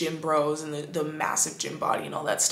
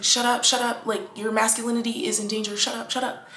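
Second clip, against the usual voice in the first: a hint of a harsh inner voice, pitched higher; 4 semitones higher than usual. Inner voice scolding a crying man, mildly imitated harsh hushing. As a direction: mimic the nagging voice telling him to shut up. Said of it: "the voice in their head saying".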